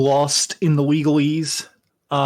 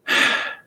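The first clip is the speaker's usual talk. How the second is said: heavy in-character sigh; dismayed sigh. Acted. Learning of children in the brothel, dismayed sigh.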